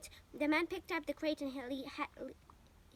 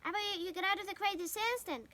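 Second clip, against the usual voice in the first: higher, louder stern order; commanding; 6 semitones higher, 4 dB louder than usual. A narrator's reading. Mother orders Avery out of the crate, stern loud command. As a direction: scold him sharply. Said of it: "commanded his mother".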